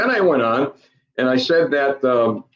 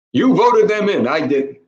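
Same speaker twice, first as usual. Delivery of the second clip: louder and higher, jabbing; host blaming the voters, raised voice; accusing; 5 semitones higher, 3 dB louder than usual. Real, not acted. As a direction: throw the blame at them. Blaming the listeners.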